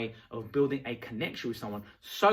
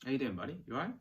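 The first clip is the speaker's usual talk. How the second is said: softer, easy greeting that mirrors them; calm matching greeting; 6 dB quieter, much faster than usual. Shown as a demonstration. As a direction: greet them gently at their level. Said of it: "sit next to them ... cross your hands".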